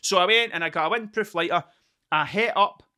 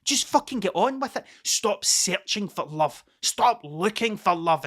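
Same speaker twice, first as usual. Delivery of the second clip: excited self pep talk; 5 semitones higher than usual. Retold or imitated. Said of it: "And I was like".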